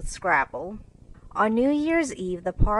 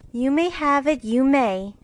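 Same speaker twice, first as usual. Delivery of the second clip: "may" lifted high and held; stress on may; 7 semitones higher, 5 dB louder than usual. Acted. Meg granting the glove, stressing may. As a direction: lean on "may" both times. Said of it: "lending the glove".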